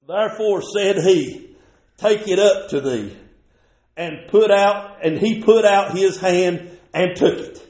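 slow, deliberate Bible reading from the pulpit; measured, emphatic scripture delivery. Real, not acted. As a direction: read the verse out slowly, phrase by phrase. Reads scripture aloud to congregation.

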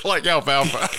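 stifled giggles. Real, not acted. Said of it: "Cannot keep a straight face".

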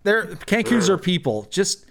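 high-pitched, flustered captain voice; indignant captain. Acted. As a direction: protest as if the question is absurd. Captain defends Kenku, in character.

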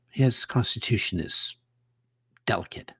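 hushed confidential aside; whispered aside. Acted. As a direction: lean in and whisper it to the barkeep. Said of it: "aside about friend".

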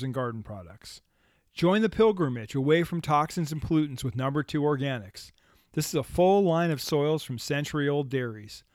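smooth sponsored ad read. Acted. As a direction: sell it like a radio spot.

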